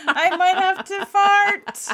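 high, slow, laughing pretend-dog line; voicing the dog, cracking up. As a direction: giggle through the dog's thought.

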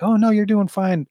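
high, light mock reassurance to a nervous driver; imitating himself soothing his daughter; chirpy pretend calm over hidden panic. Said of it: "I was very calm with her".

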